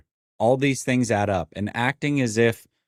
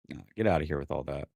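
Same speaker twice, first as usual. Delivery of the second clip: dismissive; 8 semitones lower, 9 dB quieter, faster than usual. Real, not acted. Dismissing fans' excuses.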